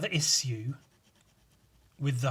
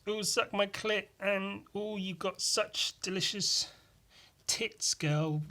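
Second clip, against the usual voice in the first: higher, quieter mock porn voice; breathy imitation of a lesbian porn clip; 7 semitones higher, 4 dB quieter, slower than usual. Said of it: "It was".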